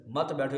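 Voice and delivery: "مت بیٹھو" said as its own phrase after a break; pause after اٹھو. Shown as a demonstration. Preacher finishing the phrase "مت بیٹھو" on its own. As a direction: keep "مت" with "بیٹھو". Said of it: "یعنی بیٹھنا نہیں ہے".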